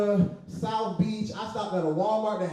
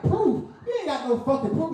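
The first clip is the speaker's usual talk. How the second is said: high, heated rant at the window; irate customer; 9 semitones higher than usual. Retold or imitated. Customer ranting at the McDonald's worker, high mock fury. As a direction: yell it out, furious over ice cream. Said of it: "I'm getting irate".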